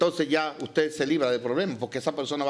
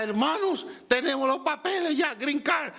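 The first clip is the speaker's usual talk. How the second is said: very high-pitched, acted-out jubilation; imitating jubilant announcement; 9 semitones higher than usual. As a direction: announce it to the congregation, overjoyed. Alguien anuncia que tiene papeles. (imitando un júbilo agudo)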